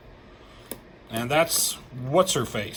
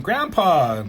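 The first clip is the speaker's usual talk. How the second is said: mock yell of a kid calling out; imitated kid's yell; 4 semitones higher, 5 dB louder than usual. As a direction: call out like a child, a bit louder and higher. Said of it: "this kid yells out to him".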